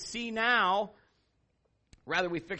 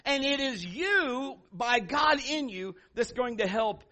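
high, loud, drawn-out preaching; 5 semitones higher, 5 dB louder, slower than usual. Acted. Preacher driving the lesson home to the congregation. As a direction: build it up like a revival preacher.

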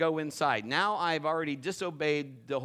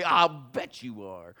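sarcastic thought; 3 semitones lower, 4 dB louder, slower than usual. Retold or imitated. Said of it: "But I didn't say anything".

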